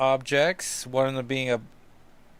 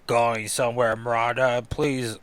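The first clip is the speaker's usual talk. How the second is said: bad Russian accent. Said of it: "how to do a Russian accent".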